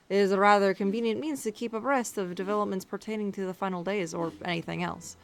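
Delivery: put-on measured dragon dignitary with rough Russian accent; formal speech in a shaky attempt at Russian accent. Dragon ruler giving regards, amateur Russian-like accent. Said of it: "doing, like, a Russian accent".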